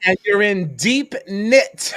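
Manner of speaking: cracking up at own pun; laughing. Real, not acted.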